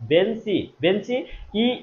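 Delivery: repeated বেঞ্চি, then the final ই alone; teacher drilling the ending ই of বেঞ্চি; demonstrated pronunciation. Shown as a demonstration. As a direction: sound out বেঞ্চি and isolate its long "ee". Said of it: "ইটা কিন্তু শেষে উচ্চারণ হচ্ছে".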